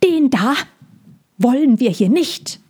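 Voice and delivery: a hostile bird pointing at the dragon. Acted.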